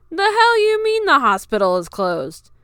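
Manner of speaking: high, loud harsh demand; angry. A narrator's reading. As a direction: snap at her. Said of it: "Fuyuhiko's harsh words".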